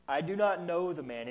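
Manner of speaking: sworn denial. Retold or imitated. Peter denies Jesus to the bystanders, sworn denial. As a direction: swear it, word by word. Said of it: "invoked curses on himself and swore".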